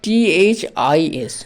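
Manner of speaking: letters spelled out very slowly; slow spelling. Shown as a demonstration. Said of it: "এবার দেখো, দিস". (ধীরে ধীরে বানান করে)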